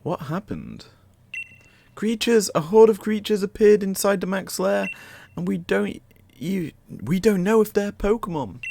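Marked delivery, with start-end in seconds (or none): 1.9-8.6 higher and louder, urgent alarm; alarmed announcement. Acted. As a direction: sound the alarm about the creatures. Reads alarming news aloud.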